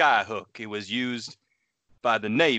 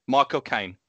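Michael Caine imitation; 2 semitones higher than usual. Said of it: "that's how Michael Caine says his own name".

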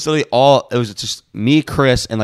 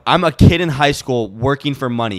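retold fed-up comeback, louder at the end; retold swearing; 5 dB louder than usual. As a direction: build a mock telling-off to a louder finish. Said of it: "I'm swearing at this chick".

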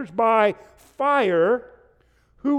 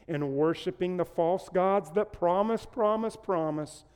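promise, promise, promise, each softer; fading repetition; 4 semitones lower, 6 dB quieter than usual. Acted. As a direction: let each promise fall away quieter. Repeated word fading away.

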